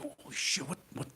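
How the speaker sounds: hushed panicked whisper, mostly breath; freaked-out whisper. Retold or imitated. Actor at first table read whispers a freaked-out "what am I doing here". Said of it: "and I freaked out".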